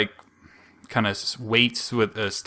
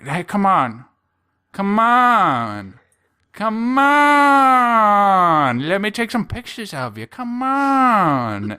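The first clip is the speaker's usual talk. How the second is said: high and loud wheedling "come on", rising higher and louder each time; pushy girl; 9 semitones higher, 5 dB louder, much slower than usual. Retold or imitated. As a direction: badger her to pose, building to a loud high plea. Pushy girl demanding photos.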